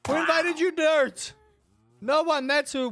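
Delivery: high, loud jeering; mock taunt. Real, not acted. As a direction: taunt the intruders playfully. Taunting raiders in game.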